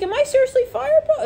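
high, disbelieving whine; mock fired coworker. Locked-out worker asks Leo if fired, mock whine. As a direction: sound stunned at being locked out.

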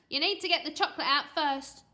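put-on pushy kid's demand; snappy demand. A narrator's reading. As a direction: order mum about impatiently. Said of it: "he snapped".

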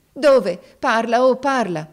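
high, loud frantic shout. Acted. Viola shouts at the jailer to tell her, frantic and loud. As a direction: scream at him to speak.

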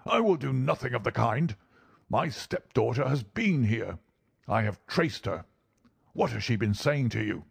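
lightly voiced indignant old man; angry old doctor. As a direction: press them like an indignant old bully.

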